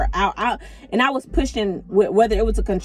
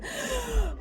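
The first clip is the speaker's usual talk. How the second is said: deep exhale; 13 semitones higher, 10 dB quieter than usual. Retold or imitated. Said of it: "you would hear me say".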